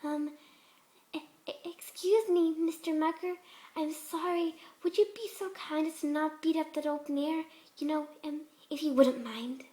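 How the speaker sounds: a hint of mock timidity; timid self-imitation. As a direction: shrink back politely. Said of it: "perfectly good imitation of her usual timid self".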